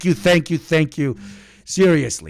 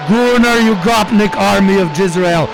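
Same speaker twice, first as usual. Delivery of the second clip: rallying shout. Acted. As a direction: proclaim it like a general rousing an army. Rallying chat like an army.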